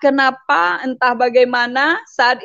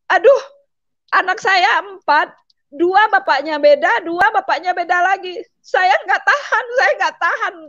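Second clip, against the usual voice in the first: raised pitch, pleading complaint; retold distress; 5 semitones higher than usual. Mother of four protests remarrying, retold distress. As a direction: re-enact an exasperated lament, voice climbing high.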